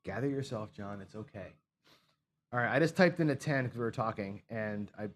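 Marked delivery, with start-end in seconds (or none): 0.1-1.5 soft calming words to himself, fading lower; a hushed pep talk to himself after a blunder; quiet self-talk. Real, not acted. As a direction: talk yourself down under your breath.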